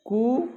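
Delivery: कु with a short vowel, one beat; one-beat rooster call. Shown as a demonstration. Teacher imitating a rooster's crow for students, short one-beat कु. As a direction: give कु a single brief beat of vowel. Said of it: "तीनों मात्रा काल का प्रयोग बता रहा हूँ".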